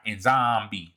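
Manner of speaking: "Nzambi" with the N sounded up front; emphasized name. Shown as a demonstration. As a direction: stress "Nzambi", leaning on the name. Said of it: "They put emphasis on his name".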